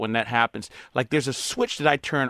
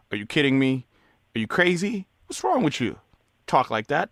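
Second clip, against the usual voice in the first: inner pushback. Retold or imitated. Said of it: "it's like".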